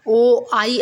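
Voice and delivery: "ओ आई" slowly as two separate vowels; separate syllables. Shown as a demonstration. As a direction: give "ओ" and "आई" a syllable each. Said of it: "दोनों अपने अलग syllable के तौर पे". ("ओ आई" धीरे, अलग-अलग syllable में)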